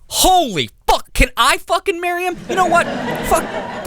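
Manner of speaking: mock swoon. Real, not acted. Overexcited about boyfriend.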